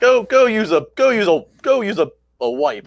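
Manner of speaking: mock-offended comeback to a co-host's jab; mock outrage. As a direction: scold him in playful protest. Mock scolding co-host over Lana jab.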